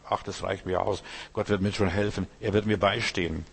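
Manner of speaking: soft, calm trusting words; quiet content. Retold or imitated. Preacher voices a content believer, softly.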